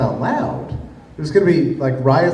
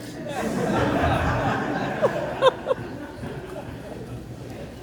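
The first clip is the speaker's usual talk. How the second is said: a long, breathy real laugh; 9 dB quieter than usual. Real, not acted. The teller breaks into laughter at his own Fauci line. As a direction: laugh out at the joke.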